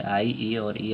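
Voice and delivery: आई, ई और ई said slowly, each vowel held apart; teacher slowly modelling आई, ई और ई; slow vowel demo. Shown as a demonstration. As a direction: sound out आई, ई और ई slowly. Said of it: "pronunciation में जो use होता है".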